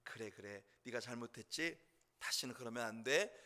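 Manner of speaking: understated, low parental reassurance; forgiving parent. Retold or imitated. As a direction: gently let the child off, voiced lightly. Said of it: "어머님 혹은 아버지의 마음 안에는".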